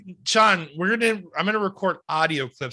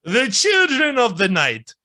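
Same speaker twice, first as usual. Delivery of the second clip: lightly voiced Dracula. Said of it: "me as Dracula".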